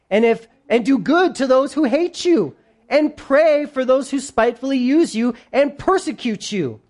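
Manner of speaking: emphatic Bible reading, rising on the commands; scripture reading. A narrator's reading. Preacher reads Jesus' words to the congregation, emphatically. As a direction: declaim it firmly, stretching key phrases.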